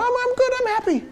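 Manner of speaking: high-pitched, understated mock contentment; calm and reserved. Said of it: "calm and reserved".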